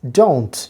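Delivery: "don't" with a clear O glide, falling; careful pronunciation. Shown as a demonstration. Teacher repeats the word for learners, careful model pronunciation. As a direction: model "don't" as a single syllable. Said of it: "আমি আবার বলছি".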